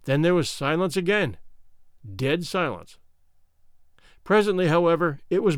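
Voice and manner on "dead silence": ordinary delivery, nothing marked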